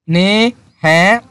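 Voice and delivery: surprised. Shown as a demonstration. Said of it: "উনিও অবাক হয়ে গেছে".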